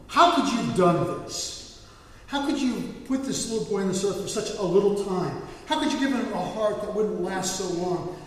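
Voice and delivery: retold, restrained angry questioning; mildly angry, anguished plea; angry at God. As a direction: challenge God, starting hard and easing off. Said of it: "He gets angry at God".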